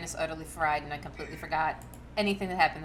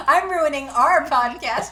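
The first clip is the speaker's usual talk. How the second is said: loud, slow, higher playful protest; mock defiance; 6 semitones higher, 12 dB louder than usual. Co-host answers the host's complaint about ruining the podcast, mock defiance. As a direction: jokingly declare it, drawing the words out.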